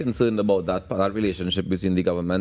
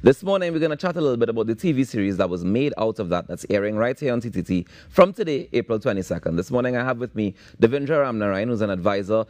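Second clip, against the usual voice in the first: upbeat morning show host intro; bright radio host welcome. Acted.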